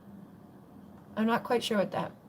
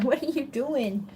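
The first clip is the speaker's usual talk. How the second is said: laughing; 4 semitones higher than usual. Real, not acted. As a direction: giggle it at the pet. Laughing at the dog.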